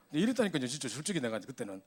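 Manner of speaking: ordinary talk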